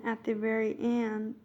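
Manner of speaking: southern accent slipping out. Real, not acted. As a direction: let a Southern US lilt slip in. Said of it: "my southern accent came out".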